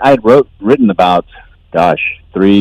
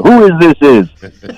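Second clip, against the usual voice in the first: quoting the Cheech and Chong line; 5 semitones higher, slower than usual. Retold or imitated. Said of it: "that's how we ask".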